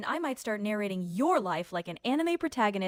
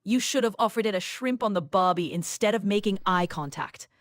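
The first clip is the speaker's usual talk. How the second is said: slightly lowered Australian accent; 3 semitones lower than usual. Shown as a demonstration. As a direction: tease him in an Australian accent. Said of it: "do another Australia accent".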